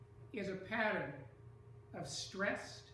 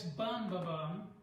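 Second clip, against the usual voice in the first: "bum ba bum" with weight on the outer beats; demonstrated rhythm; 2 semitones lower, slower than usual. Shown as a demonstration. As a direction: sound out "bum ba bum" as a stress pattern. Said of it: "We've got this".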